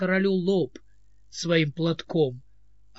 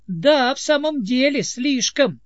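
sharp, higher, louder angry cry; angry exclaim; 7 semitones higher, 5 dB louder than usual. A narrator's reading. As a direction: cut in angrily. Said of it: "воскликнул сердитый голос".

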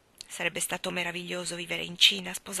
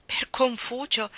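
higher, slow exclamation by Mark; exclaiming; 5 semitones higher, slower than usual. A narrator's reading. Mark exclaims to her about the truth, slow and high. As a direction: call on Confucius in sudden conviction. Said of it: "esclamò Mark".

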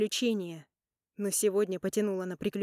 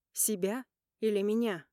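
normal talking voice

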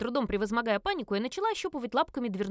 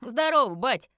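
hearty louder call to dad; loud greeting; 4 semitones higher, 8 dB louder, slower than usual. A narrator's reading. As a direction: son bursting in to greet his father, louder. Son greets father loudly.

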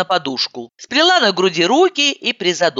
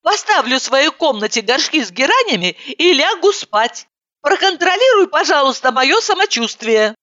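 put-on high girlish voice; 10 semitones higher than usual. Heroine continues, high.

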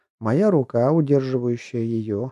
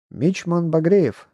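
slow, raised formal report; officer reporting; 5 semitones higher, 4 dB louder, slower than usual. Acted. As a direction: announce yourself crisply like a sailor. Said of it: "представился флотский".

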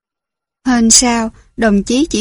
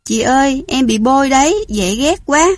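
whiny little doll; 2 semitones higher than usual. Acted. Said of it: "nũng nịu".

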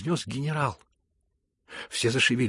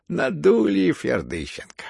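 slow, loud, high wail of a duped man; plaintive, drawn-out exclamation; plaintive cry; 6 semitones higher, 7 dB louder, slower than usual. A narrator's reading. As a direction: cry out pitifully, dragging it. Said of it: "вскричал плачевным голосом Фердыщенко".

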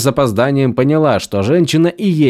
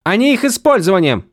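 outraged cry; 7 semitones higher than usual. A narrator's reading. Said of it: "вскричала Вивена".

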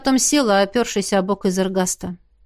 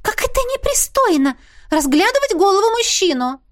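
put-on high, scornful ghost girl voice; haughty ghost girl; 10 semitones higher than usual. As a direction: scoff it out like a lovesick teen ghost. Missy scandalised.

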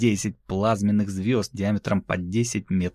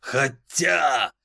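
thoughtful demon voice; 6 semitones higher than usual. Acted. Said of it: "задумался он".

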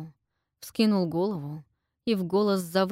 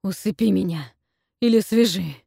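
rasped plea; 8 dB louder than usual. Acted. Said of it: "прохрипел Сет".

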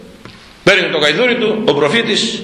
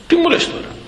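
king's incredulous retort. Retold or imitated. King retorts to prophet.

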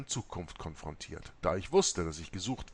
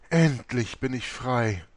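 relieved; 3 semitones higher, 8 dB louder, slower than usual. Acted. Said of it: "sagte Maria erleichtert".

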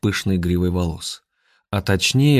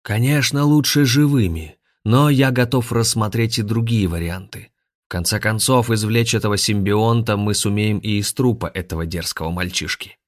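grandmaster voice; 3 semitones higher than usual. Acted. Grandmaster continues to guards.

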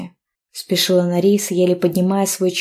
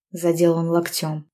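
ordinary delivery, nothing marked

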